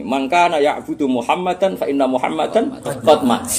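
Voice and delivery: slow, measured Arabic quotation; speech recitation. Acted. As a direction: recite it like an orator, drawing it out. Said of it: "Akhirnya pidatonya begini". (pidato pelan dan terukur)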